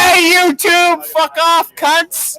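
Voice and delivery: loud slow yell at the camera; shouting. Real, not acted. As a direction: bellow it out to the viewers. Shouting at YouTube viewers.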